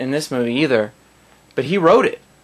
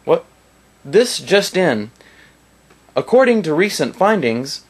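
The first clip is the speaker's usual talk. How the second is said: news anchor; 4 semitones higher than usual. Retold or imitated. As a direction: announce it like a cheesy fake anchor. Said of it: "the guy is like".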